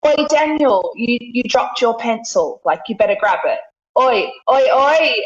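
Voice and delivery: calling for attention. Retold or imitated. Telling Daniel he dropped his pencil, calling out. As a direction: warn a friend playfully about the pencil. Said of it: "or like".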